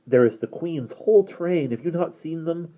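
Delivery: put-on light girl voice. Derna answers creature.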